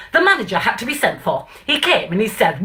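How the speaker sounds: light, self-admittedly bad northern English accent reciting; a mild northern accent, Stanley Holloway monologue style; self-mocking northern accent. Reciting the Lion and Albert to the audience in a light northern accent. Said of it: "I'm gonna do my worst northern accent ever".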